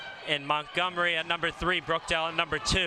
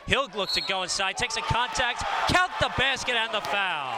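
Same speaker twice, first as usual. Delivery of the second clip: excited call; 5 semitones higher than usual. Real, not acted. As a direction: sell the and-one, voice climbing. Big play call by commentator.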